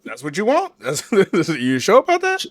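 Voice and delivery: high laughing disbelief; laughing tease. Real, not acted. Teasing friend about wanting a crazy woman, laughing. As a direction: tease him through laughter.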